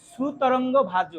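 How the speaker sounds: সুতরঙ্গ ভাজ said slowly with the wrong su sound added; drawn-out সুতরঙ্গ with su joined on; common mistake. Retold or imitated. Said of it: "ভক্তরা অনেক ভুল করে". (ভুল উচ্চারণে ধীরে সুতরঙ্গ)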